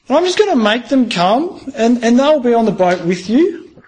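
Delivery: a hint of God coaxing Noah, fast and upbeat. Preacher voicing God asking Noah to build a boat, a lightly lifted, coaxing voice. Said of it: "the message he gets from God".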